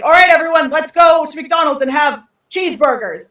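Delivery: high, loud cheery announcement; rally the crowd like a clown host; Ronald McDonald. Retold or imitated. Ronald calls everyone to McDonald's, loud and cheery. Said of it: "Ronald McDonald is like".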